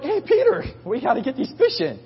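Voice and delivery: very high-pitched holler; high, urgent acted hail; calling after him. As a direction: imitate calling to a friend swimming away. Disciples calling after fleeing Peter.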